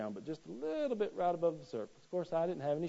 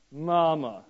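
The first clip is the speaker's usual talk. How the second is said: put-on child's cry for mama; 6 dB louder than usual. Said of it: "And I screamed what?".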